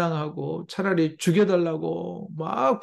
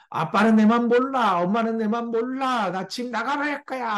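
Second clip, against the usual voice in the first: put-on defiant teen talking back; 6 semitones higher than usual. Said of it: "하면서 막 대드는".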